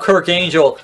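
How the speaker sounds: "Kirk Angel" with Angel like the heavenly being; mispronounced name. Retold or imitated. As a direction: say "Kirk Angel" for Kurt Angle. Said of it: "used to mispronounce everyone".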